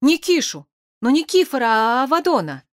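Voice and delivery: high, distraught wail, acted; tearful outburst from a muddled character; sobbing. A narrator's reading. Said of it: "Петя всхлипнул".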